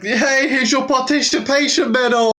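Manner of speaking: high-pitched, teasing presenter of a consolation prize; mock congratulation. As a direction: hand out faint praise in a high, put-on voice. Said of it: "that was like".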